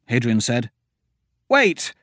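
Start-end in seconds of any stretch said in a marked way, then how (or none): 1.5-1.9 sharp high shout of alarm. Acted. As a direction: stop everyone with a cry. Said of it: "Myra shouted".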